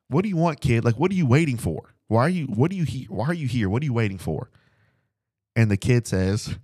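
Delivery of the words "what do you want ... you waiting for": gruff, weary dad voice, higher and pushy; a tired hero snapping at a kid; Mister Incredible. Retold or imitated. Dad home from work asks the kid on the tricycle, gruff and weary. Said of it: "And Mister Incredible is like".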